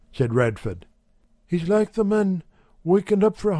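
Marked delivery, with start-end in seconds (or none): 1.5-3.6 lightly higher wife's voice; a hint of a brisk housewife; Mrs Radford's voice. A narrator's reading. Wife telling the shopkeeper, lightly higher housewife voice.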